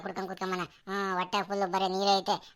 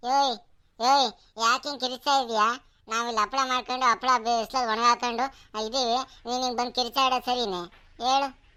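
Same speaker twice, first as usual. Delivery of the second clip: scolding; 3 semitones higher than usual. Acted. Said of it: "ಕಿರಿಚಾಟ ಅಂತ ಹೀಯಾಳ್ಸಿರಾ".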